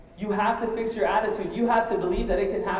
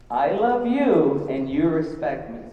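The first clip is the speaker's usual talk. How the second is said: slow, drawn-out, deliberate words; father laying down terms; 3 semitones lower, slower than usual. Retold or imitated. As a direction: lay down the deal slowly as a father. Quoting father laying down the deal.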